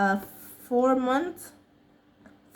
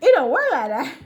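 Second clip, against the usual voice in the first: emphatic louder; 4 semitones higher, 7 dB louder than usual. Real, not acted. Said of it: "emphatic verdict".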